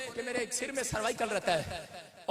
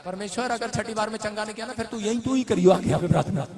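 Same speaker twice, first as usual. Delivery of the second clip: mock exasperated prayer; 2 semitones lower than usual. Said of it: "मैं पता क्या कर रहा था?".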